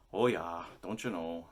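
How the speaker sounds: a hint of upper Midwest accent; lightly put-on Fargo accent. Giving an example of how Minnesotans talk, Fargo accent. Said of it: "Very Fargo-y".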